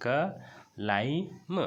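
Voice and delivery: क लाइम split slowly, silent b; sounded-out climb. Shown as a demonstration. Teacher to class, sounding out climb slowly. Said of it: "इसको सिर्फ क्लाइम कहना है".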